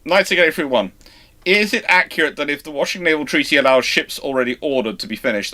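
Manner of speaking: usual speaking voice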